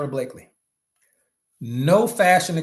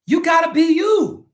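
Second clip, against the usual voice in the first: high shout; 13 semitones higher, 7 dB louder than usual. Real, not acted. Shouted at Steelers fans.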